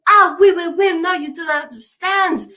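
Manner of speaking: mock French bridge troll. Bridge troll protests to the jealous lover, in hammed-up French. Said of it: "Bridge troll says".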